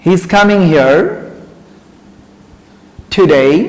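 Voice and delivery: he is coming here today, word by word, slowly; slow model sentence. Shown as a demonstration. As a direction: spell it out slowly for students. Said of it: "দেখো, অনেকে ভাববে". (ধীরে ধীরে উদাহরণ বাক্য)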